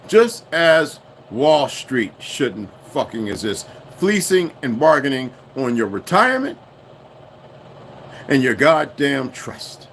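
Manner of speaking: loud, slow, heated tirade; angry rant. Real, not acted. Ranting to viewers about Wall Street, angry and loud. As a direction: spit out the anger at Wall Street.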